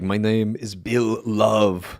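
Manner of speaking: slow, lightly voiced action-star impression; Arnold Schwarzenegger impersonation. Podcaster pitching a movie hero called Bill Love, light Schwarzenegger impersonation. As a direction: draw the words out like an Austrian strongman, lightly. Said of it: "I'm doing an Arnold Schwarzenegger impersonation".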